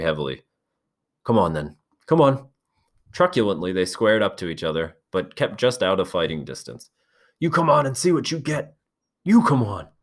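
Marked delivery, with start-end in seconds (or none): 1.2-2.5 taunting. Acted. Boys squaring up. 7.4-9.9 high, loud taunt. Acted. Jack taunts back.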